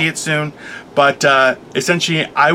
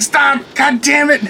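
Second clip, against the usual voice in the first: laughing plea; 10 semitones higher, slower than usual. Retold or imitated. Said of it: "he would bend over and be like".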